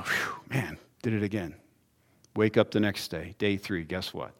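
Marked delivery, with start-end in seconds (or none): 0.0-1.5 sighing mock confession. Acted sigh after repeat offense.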